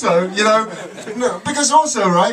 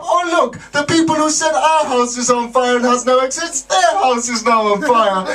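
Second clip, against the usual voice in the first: higher, smug mock gloating; mocking neighbours; 5 semitones higher than usual. Europeans gloating at Britain, a touch of mock smugness. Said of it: "do you think they're gonna help".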